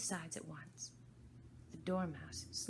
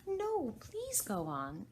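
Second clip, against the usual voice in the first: humble; 7 semitones higher, 5 dB louder, much slower than usual. Acted. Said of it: "very humbly".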